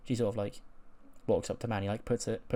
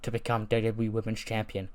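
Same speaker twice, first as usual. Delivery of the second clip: wrestling promo. Acted. To Bayley before SummerSlam, a cold, taunting promo. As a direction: threaten the champion like a cocky heel.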